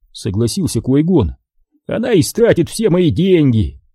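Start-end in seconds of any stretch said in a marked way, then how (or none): 1.9-3.8 sadly. A narrator's reading. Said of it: "печально добавил Диди".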